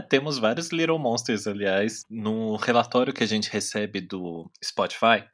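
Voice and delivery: choking while talking; words catching in the throat. Real, not acted. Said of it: "eu me engasguei comigo mesmo aqui".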